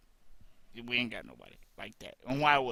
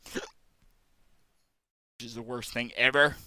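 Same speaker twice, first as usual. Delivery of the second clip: slow drawl; 4 dB louder, much slower than usual. Real, not acted. Annoyed drawl about hiccups.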